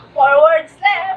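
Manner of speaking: loud. Real, not acted. Announcing the score.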